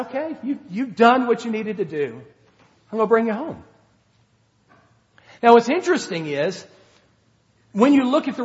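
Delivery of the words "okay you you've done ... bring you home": gentle reassurance. Retold or imitated. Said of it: "But God said".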